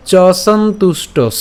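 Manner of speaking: চ সন্তুষ্টস slowly, syllable by syllable; careful syllables. Shown as a demonstration. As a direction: draw out চ সন্তুষ্টস, ending on a dental s. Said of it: "এখানে একটু খেয়াল করি".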